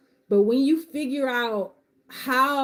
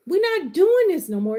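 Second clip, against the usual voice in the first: higher and louder, preaching declaration; on my pedestal; 7 semitones higher, 4 dB louder than usual. Real, not acted. Coach vowing to her community, preaching louder and higher. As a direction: declare it like a vow from the pulpit. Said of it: "Let me get off my pedestal".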